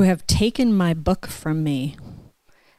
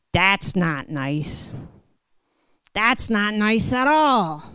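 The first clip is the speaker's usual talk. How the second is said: disapproving dad; 2 semitones higher, slower than usual. Retold or imitated. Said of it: "and he says".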